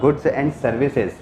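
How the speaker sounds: each word drawn out for the class to note; slow dictation. Shown as a demonstration. Teacher dictates to students copying notes, slowly. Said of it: "teacher dictating the definition".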